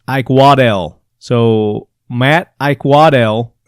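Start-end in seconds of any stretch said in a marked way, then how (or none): 0.1-1.0 "Waddell" with a clear DELL at the end; name pronunciation. Shown as a demonstration. Host reading out a listener's name as instructed, careful pronunciation. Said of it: "he says it's pronounced". 2.6-3.5 slow "Ike Waddell", Ike set apart from wa-DELL; careful name pronunciation. Shown as a demonstration. Host trying to get Matt's surname right, slow careful pronunciation. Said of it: "I hope I'm saying that right".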